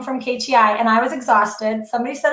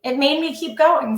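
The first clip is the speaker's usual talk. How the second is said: getting emotional. Real, not acted. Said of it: "now I'm gonna get emotional".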